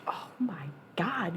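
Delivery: soft unvoiced whisper, slowed. Real, not acted. Streamer telling viewers about clean bong water, slow whisper. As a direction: breathe it as a hushed secret.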